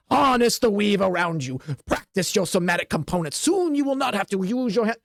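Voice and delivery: a hint of a stern old mage coaching; lightly voiced old teacher. Teacher drilling students.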